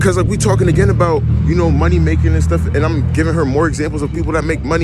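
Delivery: loud, heated rant. Real, not acted. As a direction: raise your voice in a rant.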